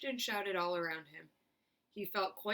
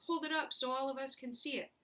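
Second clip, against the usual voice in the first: shouting; 7 semitones higher than usual. A narrator's reading. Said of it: "somebody shouted".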